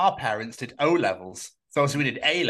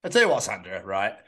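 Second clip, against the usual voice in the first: mock-indignant Yorkshire voice; a Yorkshire bloke laying down his view; Yorkshire accent; 4 dB louder than usual. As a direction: put on a blunt Yorkshire accent. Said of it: "why I put Yorkshire accent on".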